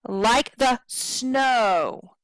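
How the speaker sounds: LIKE THE short, SNOW drawn long; stress on SNOW. Shown as a demonstration. Teacher showing the rhythm, short short long on LIKE THE SNOW. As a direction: land long on "snow" after two brief beats. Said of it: "Snow is a little longer".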